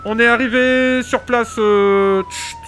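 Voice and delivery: hammed-up firefighter on the radio; police radio. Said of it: "je vous mets dans l'ambiance".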